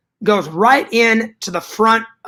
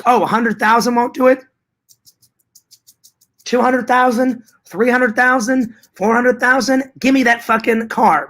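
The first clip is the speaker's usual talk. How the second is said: higher-pitched, pressing each offer; mock insistent bidding; 5 semitones higher than usual. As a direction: keep raising the offer, playfully demanding. Acting out insistent bidding for car.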